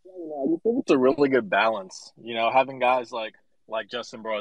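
breathless from running; panting between phrases; out of breath. Real, not acted. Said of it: "Excuse me if I'm out of breath".

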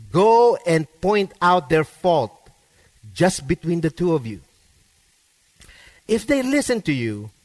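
measured, earnest Bible reading; scripture reading. Acted. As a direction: read the verses out to the congregation. Pastor reads scripture passage aloud.

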